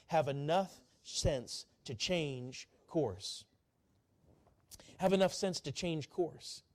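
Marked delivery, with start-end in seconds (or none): 0.1-3.5 very slow, every word spaced; slow call to repeat. Shown as a demonstration. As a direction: lead them word by word. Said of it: "Would you say that with me?".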